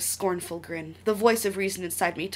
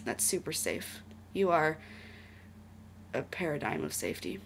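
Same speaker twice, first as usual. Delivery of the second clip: dry sarcastic aside; 2 semitones lower, 7 dB quieter than usual. Real, not acted.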